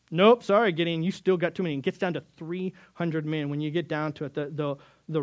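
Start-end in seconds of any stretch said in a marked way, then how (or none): 0.1-1.7 God's voice. Retold or imitated. God voiced cutting Gideon's army.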